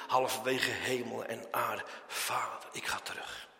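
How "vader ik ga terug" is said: soft, unvoiced whisper of turning back; Jesus whispering to the Father that he turns back; whispered refusal. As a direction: breathe it as a hidden refusal. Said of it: "hij heeft niet gezegd".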